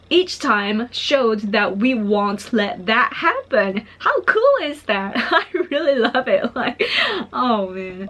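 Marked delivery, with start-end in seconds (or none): 4.0-8.1 excited. Real, not acted. Excited about leaders' message.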